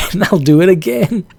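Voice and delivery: mock him smugly; a cocky fighter's taunt; imitating Henderson. Voicing Henderson's gloating thought.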